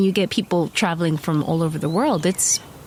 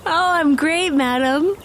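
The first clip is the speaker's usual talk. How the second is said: gushing high voice; 8 semitones higher than usual. Pretend. Playing along with madam.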